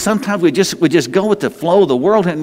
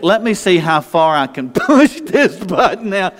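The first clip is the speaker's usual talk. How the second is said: teasing sister; 2 semitones higher than usual. Retold or imitated. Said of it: "and said".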